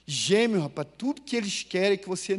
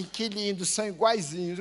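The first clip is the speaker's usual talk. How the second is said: cooing church sisters; 3 dB quieter than usual. Retold or imitated. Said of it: "as irmãs apertavam a nossa bochecha e diziam assim".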